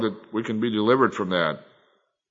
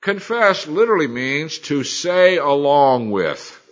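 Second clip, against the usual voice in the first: slow definition; 3 semitones higher, 4 dB louder, slower than usual. Shown as a demonstration. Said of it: "Let me tell you what the word confess means".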